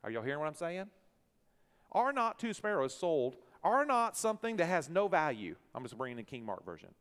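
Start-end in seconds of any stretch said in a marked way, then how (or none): 1.9-5.5 preaching emphasis. Acted.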